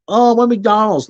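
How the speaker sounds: high, slow swooning over McDonald's; mock fast-food fan. Mocking fast-food lovers, a high slow swoon. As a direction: gush over it like a cheap treat. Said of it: "one of those people like".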